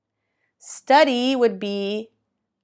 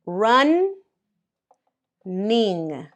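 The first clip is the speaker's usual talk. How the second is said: Run, then ning, as two separate beats with a pause; split into syllables. Shown as a demonstration. Teacher to students, splitting running into two syllables. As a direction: break Run and ning apart like two claps. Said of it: "make the two sounds".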